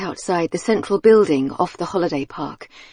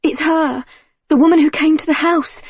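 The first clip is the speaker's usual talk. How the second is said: excited shout; 9 semitones higher than usual. Acted. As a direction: shout the realization. Marley recognizes trapped woman's voice.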